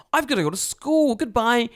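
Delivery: put-on high, loud child's farewell; little girl's voice. Little girl leaving for school, high loud kid voice. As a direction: imitate a kid calling goodbye. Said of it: "She's like".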